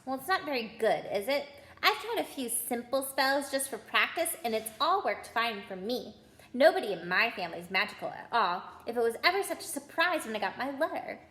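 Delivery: rattled off in a rush; very fast. Acted. Girl chattering at Ron and Harry, rushed and fast. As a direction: gabble it all in one breath. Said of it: "She said this all very fast".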